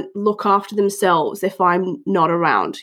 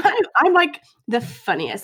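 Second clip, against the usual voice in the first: mock boast in an American accent; jokey American show-off; 2 semitones higher than usual. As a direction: put on a playful American voice. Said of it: "or an American accent".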